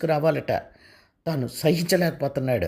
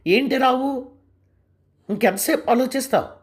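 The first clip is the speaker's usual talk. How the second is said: higher, loud call across the room; calling out loudly; 6 semitones higher than usual. Acted. Wife calls out to her husband from the dining table, loud. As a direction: shout it over from the dining table. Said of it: "గట్టిగా కేక వేసింది".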